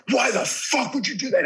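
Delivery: high, menacing Tyson imitation; imitating a furious Tyson; full Mike Tyson. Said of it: "as full Mike Tyson, like, the guy that you fear".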